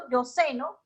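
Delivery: "ceno" stressed on CE in "yo ceno", rising; first-syllable stress. Shown as a demonstration. Teacher gives the present-tense example, stressing CE in "ceno". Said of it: "es en el momento".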